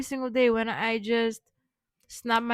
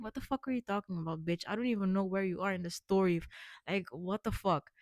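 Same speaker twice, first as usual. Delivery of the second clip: fast, softer mock annoyed viewer; imitating a confused viewer; 3 semitones lower, 5 dB quieter, faster than usual. Playing the viewer who lost the story, quick mock irritation. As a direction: dash off a mock rude heckle. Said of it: "maybe you're like".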